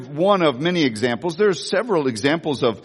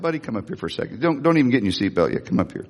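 gentle guilt-trip; 4 semitones lower, faster than usual. Retold or imitated. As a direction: draw him in gently. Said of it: "I said".

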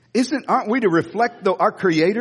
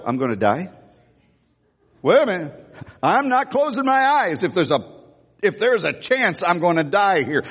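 mock child's panic. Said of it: "about there I'd go".

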